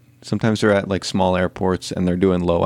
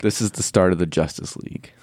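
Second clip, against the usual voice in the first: hushed, dramatic whisper. Pretend. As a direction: whisper it like a movie trailer tease.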